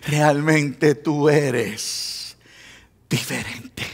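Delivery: very slow, low, fading to almost nothing; hushed admission. Retold or imitated. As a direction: imitate a reluctant admission, letting it sink away. Slow, hushed quote to end point.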